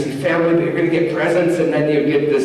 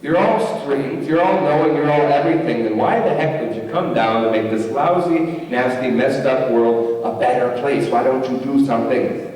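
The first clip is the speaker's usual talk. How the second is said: shaking fist at heaven. Retold or imitated. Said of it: "shaking their fist at the heaven".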